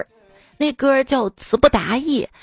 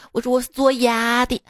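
Sichuan dialect. Retold or imitated. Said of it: "说话就是四川话".

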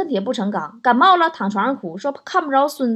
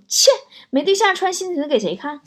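scornful; 5 semitones higher than usual. Retold or imitated. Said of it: "我妈在旁不屑地说".

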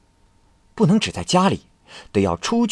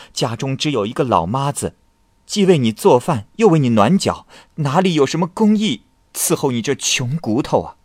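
teasing; 4 semitones higher than usual. Acted. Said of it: "妻子笑着说".

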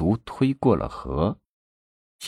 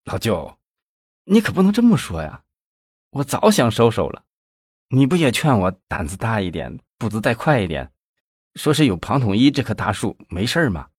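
aggrieved. Acted. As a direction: complain that it's unfair. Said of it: "费庆奇委屈地说".

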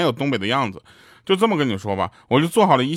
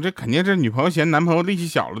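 normal talking voice

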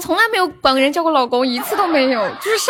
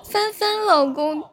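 撒娇十连. Pretend. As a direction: sweetly coax each husband, half-joking. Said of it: "撒娇十连". (撒娇的语气，拖长尾音)

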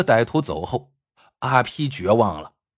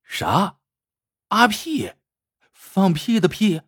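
asking through a laugh, incredulous; laughing disbelief at the name; 6 semitones higher, slower than usual. Acted. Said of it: "笑着问".

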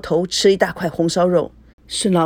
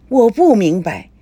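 exasperated father; 4 semitones higher, 4 dB louder than usual. Acted.

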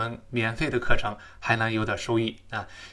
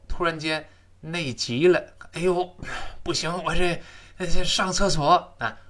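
mock urgent, higher voice; sudden urge; 5 semitones higher than usual. Teacher acting urgent need for the toilet. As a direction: act out needing the toilet now.

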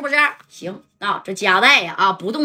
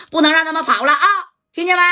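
ordering shout; 7 semitones higher, faster than usual. Retold or imitated. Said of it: "苏梦强就喊呢".

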